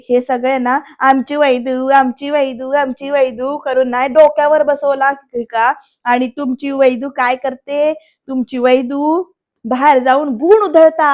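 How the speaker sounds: jeering imitation, drawn out in places; mocking. Varad taunts the family about Vaidu, mocking.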